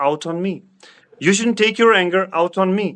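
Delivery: each word drawn out slowly for students; slow, deliberate model sentence; slow teaching demo. Shown as a demonstration. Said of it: "मैं इस तरह बोलूँगा".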